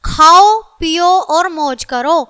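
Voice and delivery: loud खाओ followed by a short comma break; comma pause after खाओ. Shown as a demonstration. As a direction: set खाओ apart, then पियो, reading slowly. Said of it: "अल्प विराम लगता है".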